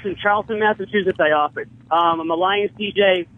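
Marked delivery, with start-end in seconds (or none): 1.9-3.3 running out of steam. Real, not acted. Caller fumbling his plug to the hosts, running out of steam. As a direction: lose momentum, with gaps and ums. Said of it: "you ran out of steam".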